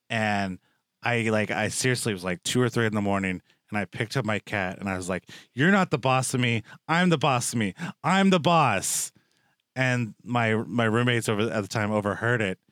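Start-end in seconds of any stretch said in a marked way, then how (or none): 5.5-9.1 mock-stern rant at the cat, slowing at the end; half-joking late-night boss speech to a cat; mock yelling at cat. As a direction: playfully scold the cat, drawing out the last line. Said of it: "she thought I was, like, yelling at".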